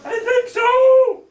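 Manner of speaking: put-on high, slow little-boy voice; small voice. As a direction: answer weakly like a hurt small kid. Hurt boy answers his aunt.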